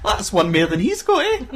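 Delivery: lightly voiced insisting mum; sketch mum. Mum selling the fake trackies to her son, sketch mum. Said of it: "And then his mum's like".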